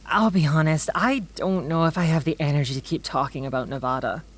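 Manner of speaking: a loud "Babe" that fades into quick weary talk; exasperated outburst. Acted. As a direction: stop them short, then rush through the rest.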